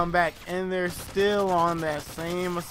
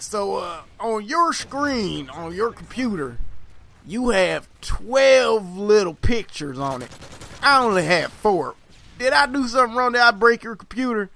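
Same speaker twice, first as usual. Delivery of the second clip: loud, higher-pitched country classmate impression; country accent; 5 semitones higher, 7 dB louder than usual. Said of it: "that's my country accent".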